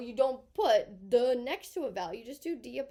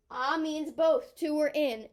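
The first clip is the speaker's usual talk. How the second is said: "both" slow and punched a little louder; stress on both; 2 semitones higher, 5 dB louder than usual. Shown as a demonstration. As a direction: lean on "both" and spell out "to or in" slowly. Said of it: "teacher stresses both meanings".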